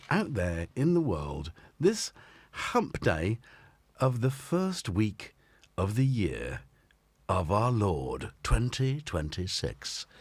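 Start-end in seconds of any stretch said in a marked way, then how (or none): 1.8-10.1 slow, grand, churchy announcing; mock solemn proclamation. Host mock-solemnly announcing the date, slow proclamation. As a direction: intone it like a herald.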